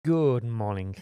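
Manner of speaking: formal broadcast greeting; newscaster voice. Pretend. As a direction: announce it like a TV anchor. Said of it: "I was trying to sound like a newscaster then".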